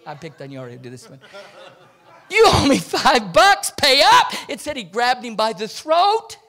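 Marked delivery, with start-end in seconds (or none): 2.3-4.3 half-hearted demand. Acted. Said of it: "We need to work on his theatrics a little bit".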